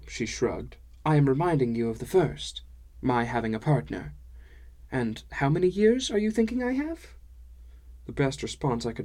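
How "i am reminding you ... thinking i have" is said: lilting dwarf-woman voice rising to a high question; dwarf woman gently setting him straight; chiding dwarf woman. Acted. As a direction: remind him pointedly, ending high.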